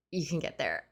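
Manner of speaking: hushed whisper, secret between two; whispering the good news like a secret. Retold or imitated. Desk agent secretly handing over his standby ticket, whispered.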